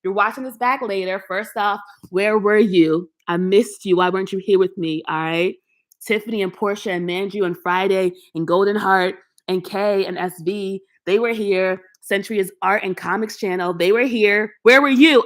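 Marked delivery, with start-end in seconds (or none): 2.1-5.0 louder, playful guilt trip; mock scolding. Scolding viewers who missed the live stream, playfully hurt. 13.7-15.2 louder, higher playful demand; mock outrage. Calling out viewers who skipped the live, mock outraged.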